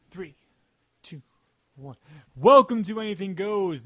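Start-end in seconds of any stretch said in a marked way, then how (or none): 2.4-3.8 intro line with a voice crack; voice cracking up an octave. Shown as a demonstration. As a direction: let the voice crack on the welcome. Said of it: "my voice cracked in there".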